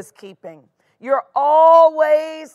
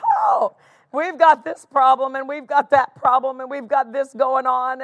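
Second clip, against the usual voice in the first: Jerry Clower impression. Board members listing their problems to Hagin, mock Jerry Clower grumbling. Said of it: "my best Jerry Clower impression".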